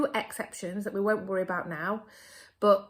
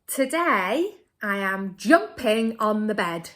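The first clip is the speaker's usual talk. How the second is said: model sentence; 6 dB louder than usual. Shown as a demonstration. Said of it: "my turn, your turn".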